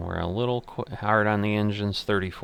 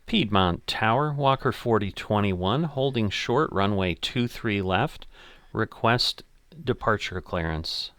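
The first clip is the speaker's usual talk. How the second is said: pilot radio readback; 2 semitones higher, 3 dB louder than usual. Acted. Pilot radio call to tower.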